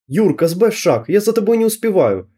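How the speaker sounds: ворчит, отставая от друга; ворчливо. A narrator's reading. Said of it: "ворчала я". (ворчливо, с жалобой)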